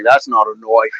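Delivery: put-on lightly done Australian accent; a touch of outback Australian accent; Crocodile Dundee. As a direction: drop into a broad Aussie "knife". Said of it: "Crocodile Dundee sort of thing".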